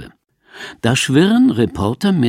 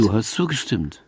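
hushed, breathy reminder; whisper. Acted. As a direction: whisper it pointedly to her. Quiet rebuke in marital quarrel.

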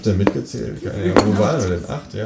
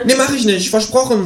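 clipped kangaroo demand. Acted. (hohe Känguru-Stimme)

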